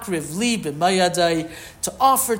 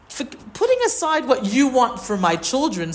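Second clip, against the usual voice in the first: higher-pitched, insistent comeback, lightly acted; mock retort; 6 semitones higher than usual. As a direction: push back as if interrupting someone. Voices Hashem's retort to Moshe.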